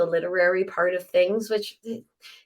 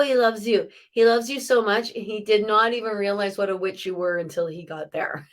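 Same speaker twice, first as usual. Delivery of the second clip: ordinary delivery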